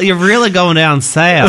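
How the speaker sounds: teasing Southern twang; mock Southern accent.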